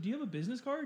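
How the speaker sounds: high-pitched imitated request; imitated customer. Customer asks podcaster for a business card, imitated high voice. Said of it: "she's like".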